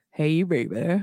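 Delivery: faked, low, deep bass voice. Speaker imagines walking around shocking people, in a put-on deep voice. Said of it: "walk around with a deep voice".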